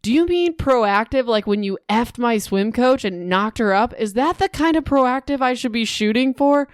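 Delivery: sarcastic retort. Retold or imitated. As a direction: fire it back at him, sarcastic. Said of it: "Aubrey says".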